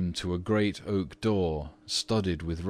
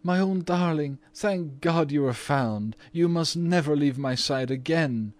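murmured; 9 semitones higher, 4 dB louder than usual. A narrator's reading. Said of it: "murmured Missus Otis".

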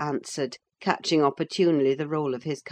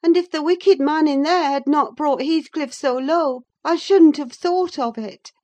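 put-on higher young woman's voice, earnest and confiding; Catherine's voice; 8 semitones higher, 3 dB louder than usual. Catherine confessing her love to Nelly, earnest. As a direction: let the secret spill out, half to herself.

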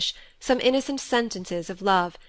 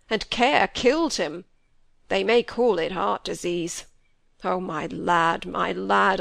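put-on an old man's voice, heavy with regret; grieving old squire. A narrator's reading. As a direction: let the old father's remorse weigh each word. Old squire grieving over son.

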